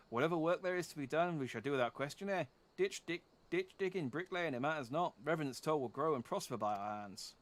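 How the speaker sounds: a lightly done Canadian father, eh at each end; a proud old Canadian father, solemn; Canadian accent. Acted. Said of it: "I can do a Canadian accent".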